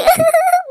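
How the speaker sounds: short high-pitched acted sob; high whimpering sob. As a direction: break briefly into a high whimper. Trapped mother breaks down.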